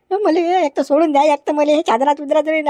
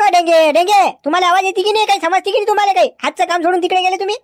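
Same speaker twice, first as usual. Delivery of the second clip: calling out; 5 semitones higher than usual. Acted. Inspector yelling for constable Denge to come, raised calling voice. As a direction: call him over from across the station.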